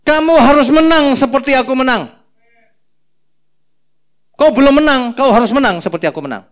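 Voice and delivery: God in Revelation urging victory, loud; God's command. Acted. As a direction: declare it with authority. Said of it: "Tuhan berkata".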